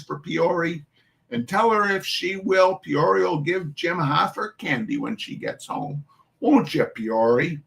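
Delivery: put-on Irish-tinged New York mum calling the children to chores; New York Irish dialect. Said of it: "I do not know this dialect".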